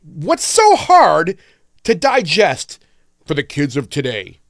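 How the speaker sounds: slow, drawn-out sarcastic questions. Real, not acted.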